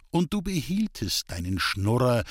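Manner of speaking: ordinary talk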